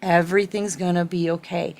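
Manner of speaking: a gentle, understated murmur of comfort; calm cooing. Retold or imitated. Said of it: "whispering this message in her".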